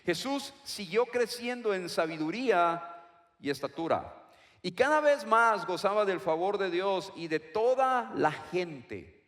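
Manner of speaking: reading scripture. Shown as a demonstration. Preacher reading the key verse, proclaimed. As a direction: read aloud with weight. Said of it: "y dice así".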